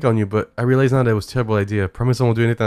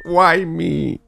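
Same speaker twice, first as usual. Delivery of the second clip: laughing why; 5 semitones higher, 5 dB louder, much slower than usual. Real, not acted. Laughing while caught.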